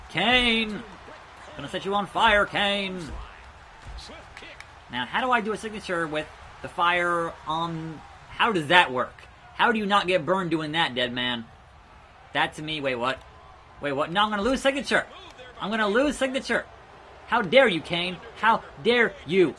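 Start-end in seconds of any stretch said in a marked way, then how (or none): 0.1-3.0 calling out. Real, not acted. Calling out to game character. 14.1-16.7 higher, urgent dismay; panicked. Real, not acted. Game panic. 17.3-19.5 hammed-up indignant scold; theatrical how dare you; mock outrage.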